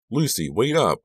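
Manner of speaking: acted "wait for me" call. A narrator's reading. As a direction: call after someone walking ahead. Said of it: "I called".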